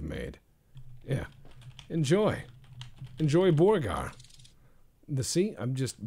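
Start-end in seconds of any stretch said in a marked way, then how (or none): 1.9-4.1 high, loud, sing-song "Enjoy Borgar"; hammed-up vendor voice. Burger chef hawking to a customer, hammed-up high voice.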